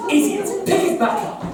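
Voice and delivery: fast, high snapped order; impatient scold. Acted. Franz berates his sidekick, fast impatient scold. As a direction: bark it quickly at the fool.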